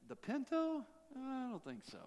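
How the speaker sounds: scoffing refusal. Retold or imitated. Mocking refusal of the Pinto.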